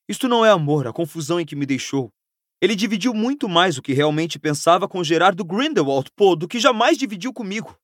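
mildly heated, rising complaint; bitter protest. Acted. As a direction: protest with wounded indignation. Harry bitterly protests to Hermione.

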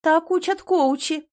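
high, slow, loud snooty claim; nose in the air; haughty. A narrator's reading. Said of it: "задирает нос Аня".

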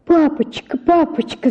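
high pleading cry of papa; a child begging her father, voice high; высокий умоляющий крик. Acted. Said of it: "закричала я".

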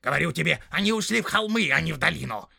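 loud, high snarling orc tracker; rough orc voice. Acted. Orc tracker arguing with the big orc, loud and snarling. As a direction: bark it out like a quarrelsome orc.

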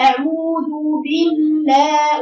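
"أعوذ بالله" slowly, stretching long u and a; elongated madd. Shown as a demonstration. Teacher points out the madds, "أعوذ بالله" with vowels drawn out. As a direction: hold the waw of "أعوذ" and the alif of "بالله". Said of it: "فيها الواو المادية".

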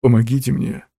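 put-on mildly desperate old man's shout; desperate cry for help. A narrator's reading. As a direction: call out for rescue. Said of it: "отчаянно заорал старик".

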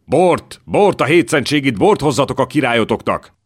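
a king roaring for wine, fists on the table; furious shout. A narrator's reading. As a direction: bellow it out high and loud in a rage. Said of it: "mikor Zsigmond bőszen felkiáltott".

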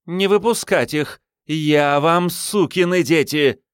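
high, loud barked command; gruff barked parade orders. Acted. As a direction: bark orders like a centurion. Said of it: "Голосом Центуриона воззвала".

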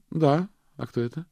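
a wary woman on the phone; female caller. A narrator's reading. Miranda voiced on the phone.

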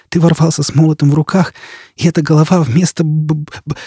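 mild hysterical stammer. Acted. Jisbella mocks Foyle's hammer idea, hysterical and stammering. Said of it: "истерически рассмеялась".

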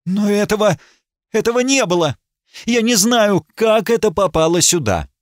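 high, rising protest of innocence; crying out. Acted. Accused lady crying out that the purse isn't hers. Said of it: "Леди Сесиль вскрикнула".

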